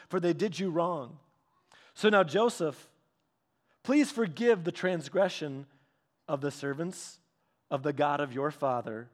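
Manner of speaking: measured scripture reading with pauses; solemn Bible reading, lightly set apart. A narrator's reading. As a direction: read the passage aloud evenly and deliberately.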